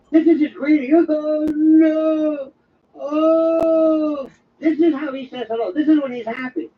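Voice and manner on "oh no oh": long, high hammed-up wail; mock crying. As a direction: wail it out like an exaggerated tearful greeting. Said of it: "he always sounds like he's crying".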